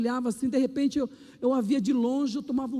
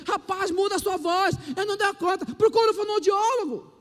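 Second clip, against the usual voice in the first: firm pastor advice; 6 semitones higher than usual. Retold or imitated. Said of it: "Eu falei".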